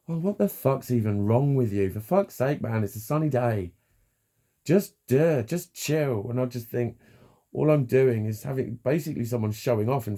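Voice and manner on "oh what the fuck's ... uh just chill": dismissive scoffing. Retold or imitated. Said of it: "it's like".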